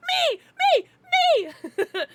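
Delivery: high loud "Me!" calls; a hand-waving, loud high "me"; eager volunteering. Pretend. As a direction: pick me, pick me.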